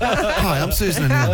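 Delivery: bright, high sales pitch; infomercial voice. Retold or imitated. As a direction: sell it like a TV ad. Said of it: "She sounds like an infomercial".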